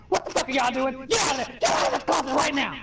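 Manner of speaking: high, loud angry shout; shouting sister. Retold or imitated. Sister catching them in the closet, yelling high and loud. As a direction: bust them like a furious older sister.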